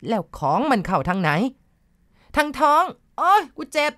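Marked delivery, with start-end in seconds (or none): 2.4-3.9 high, loud, strange voice babbling in pain; a spirit inside the girl wails its hurt, much higher and louder; possessed stammering cry. A narrator's reading. Possessed girl cries out under the healer's foot, high and loud.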